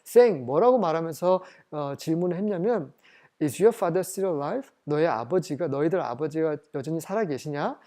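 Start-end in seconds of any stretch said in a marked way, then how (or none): 3.4-4.7 slow, measured Bible reading; scripture reading. Acted. Preacher reading the verse to the congregation, slow and measured. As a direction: read each English word out slowly. Reads scripture aloud slowly.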